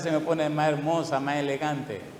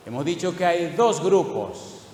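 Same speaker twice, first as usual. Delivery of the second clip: slower, stressing "dos" heavily; slow emphatic repeat; 3 semitones higher, slower than usual. Acted. Preacher hammering the point to the congregation, slow. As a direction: drive home "dos grupos" word by word.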